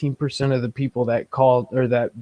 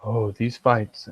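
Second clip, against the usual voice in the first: public radio voice; 3 semitones lower, slower than usual. Acted. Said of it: "talk like the public radio people".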